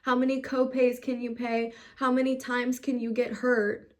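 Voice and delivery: fast, bitter mock of the doctors' greed; a furious list of grievances; angry rant. Real, not acted. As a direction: spit out their questions in real anger. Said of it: "I'm trying not to get mad".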